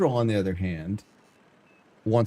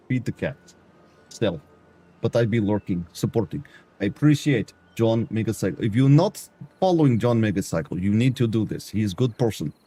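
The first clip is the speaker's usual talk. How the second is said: put-on Eastern European accent; mock Eastern European character voice; bad Eastern European accent. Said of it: "This is how I have to talk".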